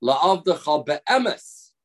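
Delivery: slow, be'emes drawn out and lifted at the end; stress on be'emes. Shown as a demonstration. The rabbi showing the cantor where to stress, be'emes held. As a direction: let be'emes carry the weight, slowly. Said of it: "which word you should emphasize most?".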